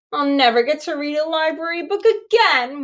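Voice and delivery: a touch of a whine; girl fearing the lost book, mildly whining. A narrator's reading. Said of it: "whined Stella".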